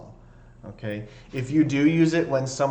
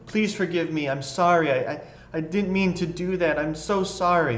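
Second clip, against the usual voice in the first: high, pleading rush of apologies; begging apology; 6 semitones higher than usual. Shown as a demonstration. Teacher demonstrates a desperate apology, high and pleading. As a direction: beg forgiveness, stumbling over I.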